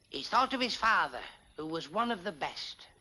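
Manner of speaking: slow, solemn reciting of a melodramatic poem; dramatic recitation. Acted. George reciting his poem to the pals, solemnly dramatic. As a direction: declaim it like a parlour performer.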